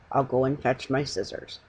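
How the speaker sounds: cowed into fetching scissors; quiet voice. Acted. Salesman cowed by the bear's stare, quietly. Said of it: "he said in a quiet voice".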